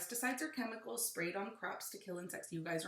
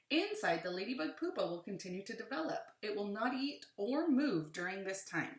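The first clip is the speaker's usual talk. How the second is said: put-on reading to children; 5 dB louder than usual. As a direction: lively, clear read-aloud. Reads book aloud to children.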